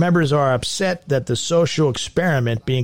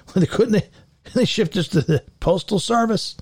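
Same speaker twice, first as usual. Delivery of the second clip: incredulous; 7 semitones higher than usual. Real, not acted. Incredulous joke.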